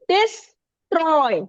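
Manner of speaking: डिस्ट्रॉय drawn out, weight on ट्रॉय; stress on second syllable. Shown as a demonstration. Teacher gives an example to the class, stressing ट्रॉय in डिस्ट्रॉय. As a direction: split डिस्ट्रॉय slowly, leaning on ट्रॉय. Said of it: "ये unstressed है और ये stress syllable है".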